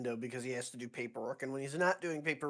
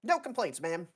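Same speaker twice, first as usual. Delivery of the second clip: higher-pitched junior officer; lightly voiced lieutenant reporting to a superior; Lance voice; 3 semitones higher than usual. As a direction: answer the colonel, pitched up. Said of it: "doing the Lance voice".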